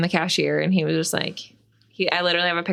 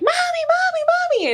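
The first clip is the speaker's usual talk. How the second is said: put-on toddler voice; 3 dB louder than usual. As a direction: call out like a little kid. Toddler yelling for mom.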